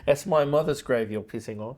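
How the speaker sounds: movie line in a New Zealand accent. Shown as a demonstration. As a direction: Kiwi accent, on request. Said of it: "say that in your Australian accent or your New Zealand accent".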